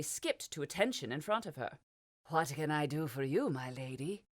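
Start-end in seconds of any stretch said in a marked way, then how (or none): 2.3-4.2 a lightly voiced eager toady; bow and scrape to the lady; a hint of an oily clerk greeting Josephine; fawning little man.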